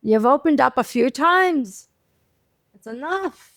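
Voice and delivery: a hint of an old Jewish lady; lightly voiced fed-up old lady. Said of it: "She has an old Jewish lady voice".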